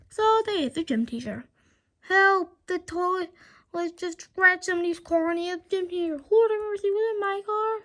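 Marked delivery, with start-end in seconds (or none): 2.1-7.7 a bystander in a panic; panicked cry. Acted. Bystander after the toilets ate the teacher, panicked shout.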